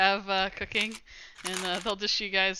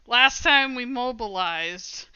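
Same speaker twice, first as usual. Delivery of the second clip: slow, slightly raised, teeth a bit gritted; through gritted teeth; 4 semitones higher, 3 dB louder, slower than usual. Acted. Gang member to visitors about the last mobilization, through gritted teeth. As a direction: draw it out with held-back frustration. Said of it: "gritting his teeth a bit".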